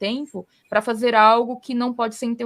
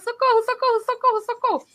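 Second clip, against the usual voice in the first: much higher, imitated panicked cries for help; mock desperate; 12 semitones higher than usual. Abandoned team phoning the boss, mock desperate high-pitched pleas. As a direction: imitate frantic callers begging for rescue. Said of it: "elas ficam me ligando desesperadas".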